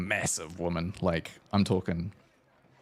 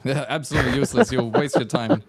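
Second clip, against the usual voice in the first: loud, scornful smith with mock Russian accent; attempted Russian accent; 5 semitones higher, 6 dB louder than usual. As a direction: dismiss the rivals in a hammy Russian accent. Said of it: "interesting accent".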